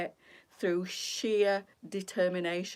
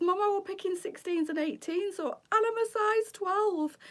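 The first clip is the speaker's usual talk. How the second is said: lightly voiced daughter, pitched higher; a hint of the daughter, higher and upset; higher, mildly distressed daughter voice; voicing upset daughter; 12 semitones higher than usual. Quoting crying daughter on phone.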